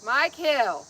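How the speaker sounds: high, loud, delighted gush; loud, rising affectionate outburst; gushing mock scolding. Real, not acted. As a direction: playfully scold someone for being so kind. Gushing thanks to gift giver.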